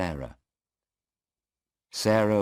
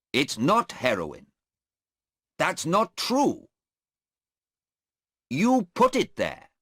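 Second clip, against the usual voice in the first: mock angry protest, higher and louder; retelling a furious denial; angry young man; 12 semitones higher, 5 dB louder than usual. Policeman retelling Hassan's angry words to the court, mock angry. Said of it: "he was very angry".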